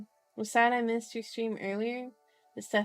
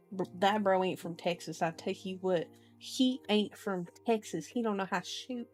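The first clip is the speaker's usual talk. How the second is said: playful country-style trash talk; mock Texan scorn. Reader mocking a character who can't shoot, mock Texan scorn.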